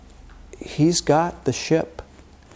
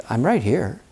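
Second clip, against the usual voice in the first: voice of God; 3 dB quieter than usual. Acted. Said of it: "if we could hear the voice of God".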